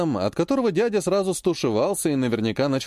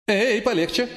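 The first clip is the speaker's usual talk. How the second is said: a jumpy warning, pitched higher; startled caution; alarmed; 7 semitones higher than usual. Acted. The scribe warns the hero to ease off, alarmed. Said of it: "забеспокоился писец".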